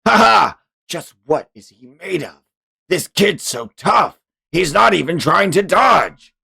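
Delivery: high, laughing amazement; amused villain. Acted. Streamer voicing the villain impressed by Julian, laughing. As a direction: marvel at the kid with a laugh.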